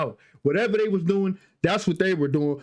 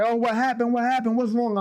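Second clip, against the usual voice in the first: higher-pitched worried questioning; imitated alarm; 6 semitones higher than usual. Relatives bursting into the room, imitated alarm. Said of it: "They all bust in the room like".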